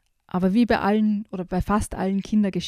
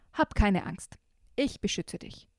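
softly; 6 dB quieter than usual. Acted. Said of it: "sagt Zipfel ganz leise".

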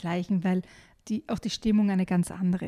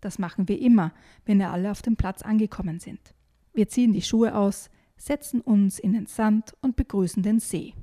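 measured, expressive book reading; evenly paced narrator; story narration; 4 dB louder than usual. A narrator's reading. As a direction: read the adventure story aloud clearly. Reads book extract aloud.

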